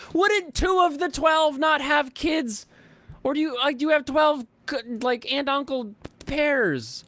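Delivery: high, loud, baffled questioning; confused. Real, not acted. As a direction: sound totally baffled.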